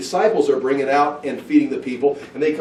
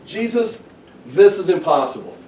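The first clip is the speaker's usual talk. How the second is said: higher-pitched opening, acted-out complaint; mock protest; 4 semitones higher than usual. Disciples reporting back to Jesus, mock protest. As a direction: protest to the master that it can't be done. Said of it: "It's like".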